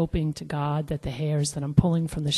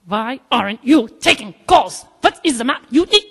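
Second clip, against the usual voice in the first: high, halting, exasperated demand; Helga; 5 semitones higher, 6 dB louder than usual. Retold or imitated. Twitching supervisor confronting the agent, angry. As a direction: berate in jerky bursts, climbing in pitch.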